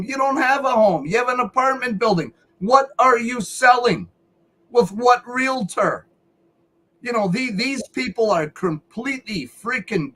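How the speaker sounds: mock her story with disbelief; incredulous. Real, not acted. Incredulous rant at woman.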